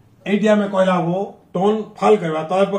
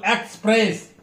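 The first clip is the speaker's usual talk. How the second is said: express with PRESS stressed; second-syllable stress; 2 semitones higher than usual. Shown as a demonstration. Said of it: "sound second syllable".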